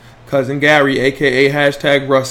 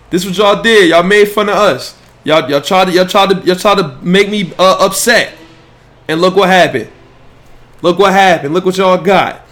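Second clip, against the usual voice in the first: gloating; 3 semitones higher, 4 dB louder than usual. Real, not acted. Taunting Laker fans over the clip.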